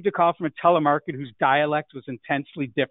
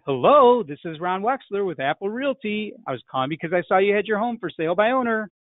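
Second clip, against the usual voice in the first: mirroring the caller; 4 semitones higher than usual. Shown as a demonstration. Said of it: "You say, ... closest imitation of them".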